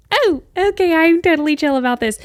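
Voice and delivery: high, loud, overexcited protest; hammed-up squeal of failed composure; mock fake-chill. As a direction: pretend to be calm while clearly thrilled. Acts out failing to be chill.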